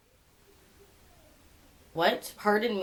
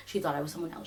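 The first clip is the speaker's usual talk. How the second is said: self-reassurance; 6 semitones lower, 6 dB quieter, faster than usual. Real, not acted. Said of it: "I'm just gonna tell myself that".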